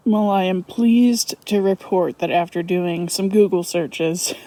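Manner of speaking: speaking with a cold-numbed face; frozen face. Real, not acted. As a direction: lips stiff from the cold. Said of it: "my face is frozen if I sound funny".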